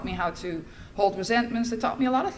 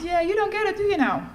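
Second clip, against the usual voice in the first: mock father; 10 semitones higher, 3 dB louder than usual. Father voiced in story.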